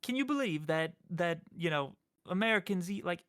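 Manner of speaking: British guy. Retold or imitated. Streamer retells a meme to the host, British accent. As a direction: imitate a disbelieving British man. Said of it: "British guy, and he's just like".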